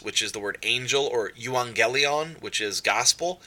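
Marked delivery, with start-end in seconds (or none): 1.3-2.4 euangelion said slowly as you-ang-ge-lee-on with ng; slow Greek pronunciation. Shown as a demonstration. Teacher modelling euangelion for students, slow and clear. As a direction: sound out euangelion carefully. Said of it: "it's gonna look like aggelos or euang".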